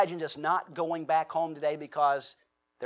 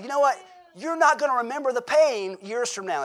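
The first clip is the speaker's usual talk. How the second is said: dad telling sons; 6 semitones higher, 5 dB louder than usual. Retold or imitated. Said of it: "And I said".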